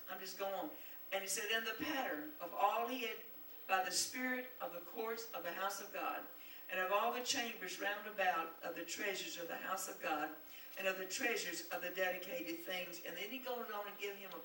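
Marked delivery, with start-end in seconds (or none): 1.5-13.0 loud, declaiming preacher's reading; scripture read with force. Acted. Preacher reading scripture to the congregation, declaiming loudly. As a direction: proclaim each line to the congregation.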